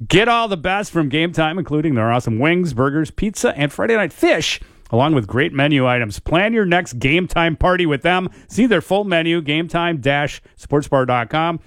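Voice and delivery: punchy, sing-song sponsor read; radio ad read. Real, not acted. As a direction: sell it like a local radio spot.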